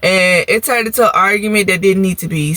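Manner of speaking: normal talking voice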